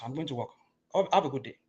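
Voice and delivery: usual speaking voice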